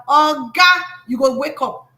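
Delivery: loud exasperated "Oh, God", then chiding; blunt scolding. Real, not acted. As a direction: scold them in blunt Pidgin, half in jest. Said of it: "Sorry, I'm talking like this".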